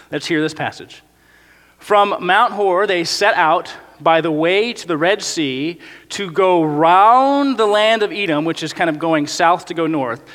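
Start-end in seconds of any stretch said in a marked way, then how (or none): 1.8-8.4 slow, measured reading of scripture. Acted. Pastor reads the passage to the congregation, slow and measured. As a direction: read the verse out slowly to the church.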